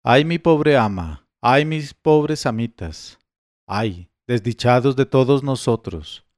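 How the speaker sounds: drawn-out theatrical lament for the dead masters; wailing lament. Acted. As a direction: lamento teatral y lento. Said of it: "llegué al jardín gritando".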